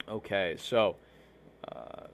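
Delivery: interrupted by hiccups. Real, not acted. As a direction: speak between hiccups. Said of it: "these hiccups are extremely distracting".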